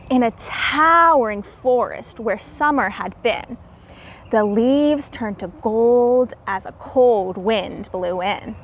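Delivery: lilting read-aloud storybook voice; rhyming story narration. A narrator's reading. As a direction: read the rhymes to the children with a gentle lilt.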